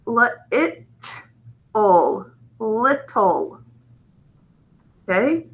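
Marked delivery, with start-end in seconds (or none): 0.1-3.6 "little" in pieces with short i, li, it, ol, then blended; sounded out. Shown as a demonstration. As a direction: break "little" into sounds with pauses, then say it whole. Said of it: "this vowel gets a breve".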